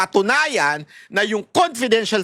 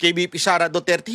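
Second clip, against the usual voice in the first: mocking quote. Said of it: "Yung iba, mini-misinterpret yun".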